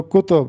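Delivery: کتب said as "kutub", u after both k and t; کتب spoken with two short u vowels, "ku-tub"; teacher models the plural کتب; correct pronunciation. Shown as a demonstration. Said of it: "کاف پہ بھی پیش اور تے پر بھی پیش".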